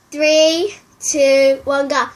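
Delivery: loud, eager count to go; loud countdown. Real, not acted. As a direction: call out the countdown. Countdown to eat.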